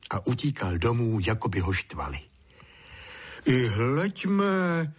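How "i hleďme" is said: higher, amazed greeting; father wondering at son back early; surprised. Acted. Father surprised to see Honzík return. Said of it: "divil se tatík".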